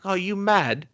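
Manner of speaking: mock British scolding, starting high; hammed-up British accent, pitch dropping to the insult. Imitating a film character's put-down, British accent. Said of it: "That's a British accent, everyone".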